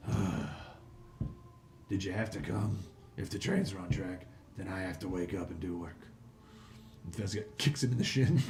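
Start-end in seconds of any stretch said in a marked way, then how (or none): 0.1-6.1 lightly voiced grumpy gnoll, subdued; a hint of weary, put-upon creature; reluctant sleepy gnoll. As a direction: grumble softly like you just got dragged out of bed.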